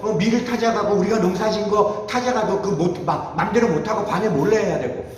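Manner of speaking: imitated indignant lament; pent-up resentment. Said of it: "막 울분이 쌓여갖고 그 하나님에 대한 울분".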